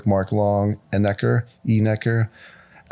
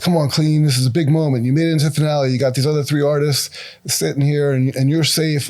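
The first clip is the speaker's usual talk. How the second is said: higher-pitched mock coaxing; lightly acted pep talk, pressing for an answer; retold urging; 4 semitones higher than usual. Judges coaxing a silent contestant to speak, urging.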